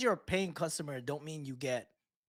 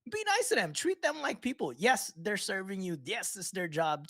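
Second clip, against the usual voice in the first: raised, impassioned plea; passionate emphasis; 6 semitones higher, 3 dB louder than usual. Real, not acted. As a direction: push it high and loud. Passionate rant, high and loud.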